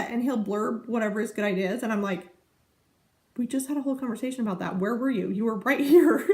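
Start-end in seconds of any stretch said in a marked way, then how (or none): 3.4-6.2 quick, exasperated but laughing; laughing retort. Retold or imitated. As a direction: rattle it off fast, laughing at him. Retorting to husband, fast.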